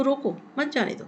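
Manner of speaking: रोको apart, then मत जाने दो; group मत जाने दो as one phrase; pause after रोको. Shown as a demonstration. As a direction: break after रोको, stress on मत. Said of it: "इसका मतलब क्या".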